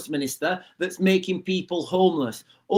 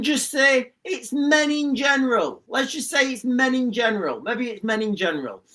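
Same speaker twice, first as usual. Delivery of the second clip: slowed, mock-prim official voice, starting high; mocking government official; 4 semitones higher than usual. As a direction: lampoon a smug minister floating a cover-up. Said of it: "someone comes in from the government and they say".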